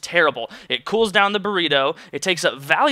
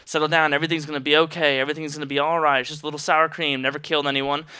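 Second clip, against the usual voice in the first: calming self-talk; 2 semitones lower than usual. Retold or imitated. Telling himself to settle down, a touch soothing. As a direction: talk yourself down gently. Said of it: "trying introspectively to be like".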